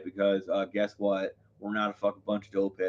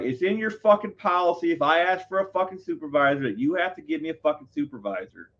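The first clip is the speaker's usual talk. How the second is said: high-pitched re-enacted rant, not full volume; retold yelling; 6 semitones higher than usual. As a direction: argue it back in a mock yell. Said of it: "So I start yelling".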